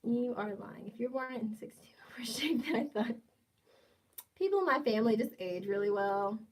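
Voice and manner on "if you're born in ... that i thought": hushed unvoiced whisper with a giggle; whispered aside to the chat. Real, not acted. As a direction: lean in and whisper it like a secret.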